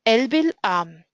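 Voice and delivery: slow "El bil am", weight landing on "am"; stress on AM. Shown as a demonstration. Teacher showing where the accent falls, stress on "am". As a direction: read "El bil am" slowly, stressing the last syllable "am". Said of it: "stress is on the syllable am".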